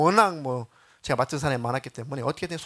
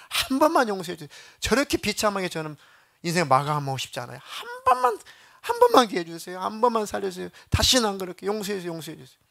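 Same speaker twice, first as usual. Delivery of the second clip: loud, higher begging for one more chance; desperate begging; 5 semitones higher, 4 dB louder than usual. Retold or imitated. Dying girl begs God for another chance, loud desperate pleading. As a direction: beg as if your life depends on it. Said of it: "마음속에서 막 울부짖어".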